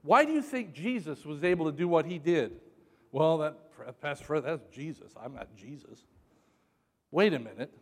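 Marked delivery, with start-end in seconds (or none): 3.1-6.1 softer, lower voice of a doubter; lightly acted, sinking excuse; mild mock objection. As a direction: trail away quietly, protesting meekly. Voicing a doubting listener's objection.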